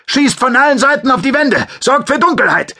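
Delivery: a commander ordering his squad to fire; shouted orders. Acted. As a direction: yell it across the battlefield. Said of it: "rief er".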